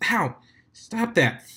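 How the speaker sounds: high yelp of "Stop that!"; pained yelp. Acted. DJ yelping at Octavia after being hit. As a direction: yelp as she gets smacked.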